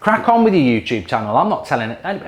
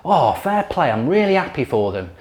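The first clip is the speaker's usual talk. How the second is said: mock sincere. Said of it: "sits there and goes".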